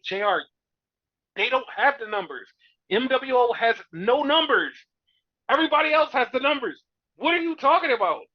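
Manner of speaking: mock arguing with J R, building up; exasperated retort. Fan retorting to commentator J R, exasperated and rising.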